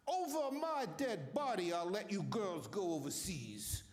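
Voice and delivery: a Georgia senator's Southern accent, retold with a light touch. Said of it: "in this beautiful Southern voice".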